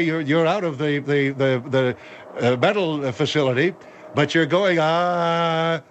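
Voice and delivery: halting, stumbling over the words; stuttering. Real, not acted. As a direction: hesitate and repeat, groping for the word. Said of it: "you're mumbling and stuttering".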